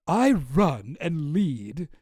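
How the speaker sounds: slow, drawn-out read in a lightly put-on voice; hint of Elon voice. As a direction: lightly act out a message, very slowly. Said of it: "I'm not gonna do the South African Elon voice".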